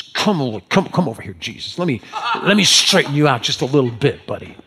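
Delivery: lightly voiced take-charge disciple; lightly acted Peter. Peter pulls Jesus aside to straighten him out, mildly bossy. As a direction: coax him aside, as if setting a friend straight.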